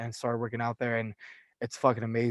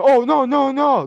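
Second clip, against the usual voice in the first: high, loud mocking "no, no, no"; squeaky backpedal of a caught boss; flustered manager; 12 semitones higher, 9 dB louder, slower than usual. Manager flustered when called out.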